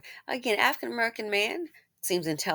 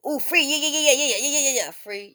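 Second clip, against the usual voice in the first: higher, louder gushing over freebies; mock eagerness; 5 semitones higher, 5 dB louder than usual. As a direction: imitate a greedy rush of excitement. Mimics people grabbing free stuff.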